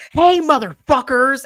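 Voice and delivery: high, loud, drawn-out taunt; mock yell. Daughter taunting the pirates, high slow yell. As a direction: holler it slowly at the pirates. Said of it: "She's like".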